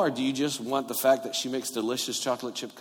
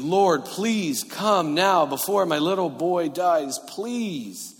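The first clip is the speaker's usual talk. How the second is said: slow plea, pitched up then easing down; pleading; 2 semitones higher, slower than usual. Acted. Royal official begging Jesus for his dying boy, pleading. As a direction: beg slowly, stretching each word. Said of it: "the official pleaded".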